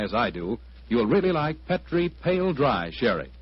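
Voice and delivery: polished radio ad read; radio announcer. Acted. Announcer pitching wine to radio listeners, polished ad read. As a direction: sell the sherry smoothly to listeners.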